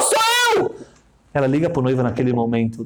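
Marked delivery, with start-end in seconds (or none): 0.0-0.8 high, slow, beaming cabbie; taxi driver voice. Retold or imitated. Taxi driver cheerfully greeting his bride passenger, high voice. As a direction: play the chatty Israeli taxi driver, pitched way up.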